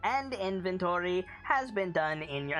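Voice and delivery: flat clockwork robot, words evenly measured. Acted. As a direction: speak as a stiff little robot. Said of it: "the Modron says".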